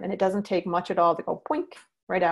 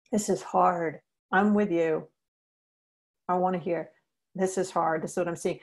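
calm validating demo. Shown as a demonstration. Teacher showing trainees how to validate an upset kid, calm and gentle. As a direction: stay with them, soothe without rushing. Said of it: "you go up to them and you say".

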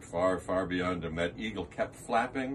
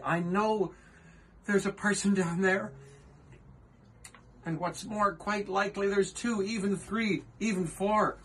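earnest, higher elephant voice; Horton the elephant; 6 semitones higher than usual. Acted. Horton pleading with the kangaroo, earnest higher voice. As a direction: plead gently as the kind elephant.

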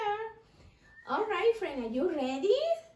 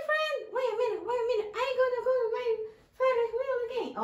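higher little mouse puppet voice; Rosie the Mouse; 5 semitones higher, much faster than usual. Acted. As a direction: play a small, eager puppet mouse.

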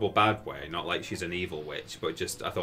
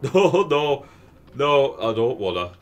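high, loud dopey cartoon-bird whine; Beaky Buzzard impression; 3 semitones higher, 7 dB louder, slower than usual. Explaining the cartoon buzzard to chat, loud high whine. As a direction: whine your refusal like a goofy buzzard. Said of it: "That's what Beaky says".

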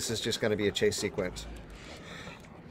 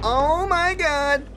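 very slow, much higher and louder "Oh my God"; drawn-out horror; 7 dB louder, much slower than usual. Real, not acted. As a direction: stretch it out in disbelief. Horrified as monster appears.

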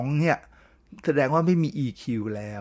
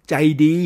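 ใจดี said loud and firm as the one key word; stressed key word; 2 semitones higher, 6 dB louder, much slower than usual. Shown as a demonstration. A teacher to listeners, loudly stressing ใจดี. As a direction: lean hard on ใจดี. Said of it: "คำเดียวเท่านั้นน่ะ".

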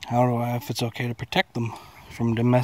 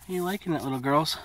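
high pet talk; 4 semitones higher than usual. Real, not acted. Talking sweetly to the chickens.

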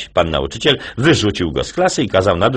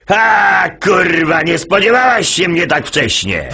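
shouting; 12 semitones higher, slower than usual. Acted. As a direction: burst in yelling up high. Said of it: "i krzyczy".

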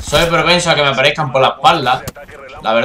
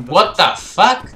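mock exclamation; 3 semitones higher, much slower than usual. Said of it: "Y es uno en plan decir".

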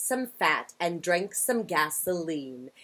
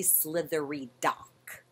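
slow, breathy whispered words; a hushed, slow whisper; 3 semitones lower, 7 dB quieter than usual. Shown as a demonstration. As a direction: whisper it slowly, like a secret. Whispered take of tongue twister.

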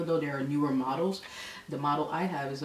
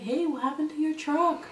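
put-on higher, louder call of a young man; 11 semitones higher, 5 dB louder than usual. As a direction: hail them from his truck.

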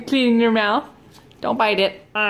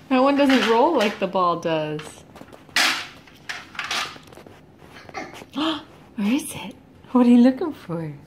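put-on sing-song talk to a baby; reading to a toddler. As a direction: coax the toddler to answer. Playing with toddler.

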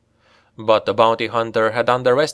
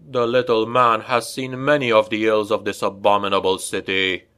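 hissing vampire. Acted. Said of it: "the vampire hissed".

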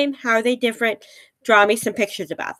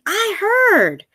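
bird voice; 11 semitones higher than usual. Acted. Bird repeats its news.

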